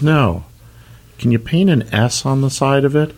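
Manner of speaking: high little snail voice; the snail asks the dealer for an S, in a high voice. Acted.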